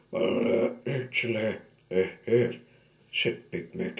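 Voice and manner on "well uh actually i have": shaky voice. Acted. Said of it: "in a shaky voice".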